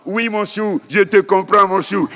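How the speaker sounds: put-on mother reassuring her one-year-old; mother to baby. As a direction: coo it like a mum soothing her baby. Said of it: "qu'est-ce que dit la maman".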